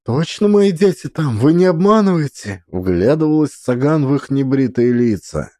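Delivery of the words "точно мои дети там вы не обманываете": anxious plea. Acted. Mother pleading, doubting the men.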